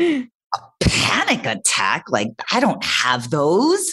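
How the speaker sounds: slow, drawn-out disbelief; retold disbelieving reply; incredulous. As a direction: stretch it out as a baffled question. Retelling her disbelieving reply to brother.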